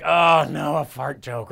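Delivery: mock dismay, starting loud, then dropping; mildly hammed-up disapproval; eye-rolling moms. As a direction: lightly imitate an exasperated mom groaning. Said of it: "Moms, you're there rolling your eyes".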